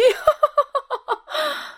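piercing, very high cackle; shrill witch laugh. A narrator's reading. Witch mocking Aslan's request, cackling shrilly. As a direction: squeal with derisive laughter.

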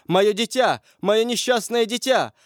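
high, grief-stricken cry; mother's wail. A narrator's reading. Old mother mourns her condemned child, wailing. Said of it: "Послышался вопль старухи-матери".

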